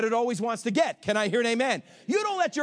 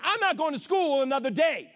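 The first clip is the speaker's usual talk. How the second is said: whiny first grader; 4 semitones higher than usual. Retold or imitated. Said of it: "a first grader looking at you and saying".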